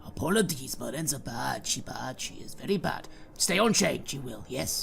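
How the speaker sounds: lightly voiced simple-minded henchman; apologetic henchman. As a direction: apologise in a mildly odd servant voice. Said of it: "he goes to you and shrugs and goes".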